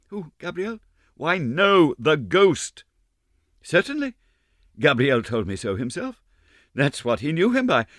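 put-on high, lively girlish gossip; young girls swapping ghost stories. A narrator's reading. Ballet girls gossiping voiced.

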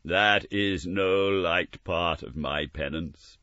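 slow, lightly ghostly voice; a hint of a grave spirit; slow solemn ghost. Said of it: "pursued the ghost".

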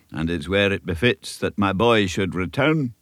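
lightly voiced elderly Scottish minister, earnest; a kindly country minister giving counsel; old Scots minister. Minister advising young Davy, a light Scots earnestness. Minister continues his speech.

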